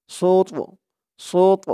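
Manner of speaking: "সোত" stopped on a heavy t with a bounce; qalqalah on ta. Shown as a demonstration. Teacher shows the pause form, bouncing the t in "সোত". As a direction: push off the final t of "সোত". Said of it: "তটাকে একটু ধাক্কা দিয়ে পড়তে হবে".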